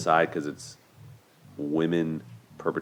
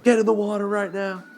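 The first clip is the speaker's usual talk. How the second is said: much higher, louder mock command; playful boyfriend order; 4 dB louder than usual. Boyfriend ordering her into the water, high playful mock command. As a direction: bark it like an excited boyfriend, half joking. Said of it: "he's like".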